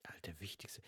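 hushed unvoiced aside; half-joking whispered confession. Real, not acted. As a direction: whisper it like a secret to the mic. Aside about what annoys most.

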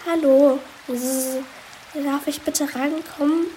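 sniffly, small, high bee voice; after crying. Acted. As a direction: sniffle through the words, dejected. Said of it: "schniefte Belinda Biene".

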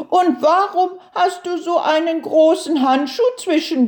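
high, quick questioning turtle voice; curious little turtle. A narrator's reading. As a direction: ask eagerly as a puzzled turtle.

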